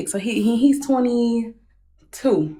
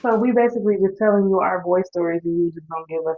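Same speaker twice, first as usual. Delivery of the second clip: muffled; 3 semitones lower than usual. Real, not acted. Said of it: "you sound like you're muffled".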